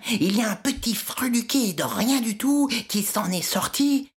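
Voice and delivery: high, scornful royal rebuke; a king scolding his architect. Acted. Minos scolds Dédale.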